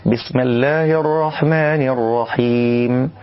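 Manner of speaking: بسم with the m opened toward a; open mim. Shown as a demonstration. Teacher demonstrates the wrong mim. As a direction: say بسم as besma, leaning to fatha. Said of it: "أقرب للفتح".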